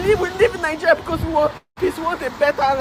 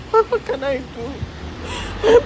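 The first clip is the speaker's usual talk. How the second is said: crying plea; 3 dB quieter, much slower than usual. Real, not acted. Distressed plea while crying.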